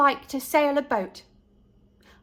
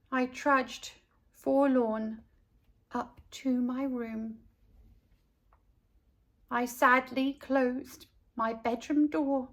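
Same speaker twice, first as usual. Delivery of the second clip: forlorn; 6 dB quieter than usual. A narrator's reading. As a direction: drag it out sadly. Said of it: "forlorn, sadly".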